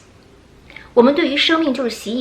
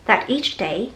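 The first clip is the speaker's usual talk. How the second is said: day rising, followed by a pause; rise then pause; slower than usual. Shown as a demonstration. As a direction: lift day and stop. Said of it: "停一下".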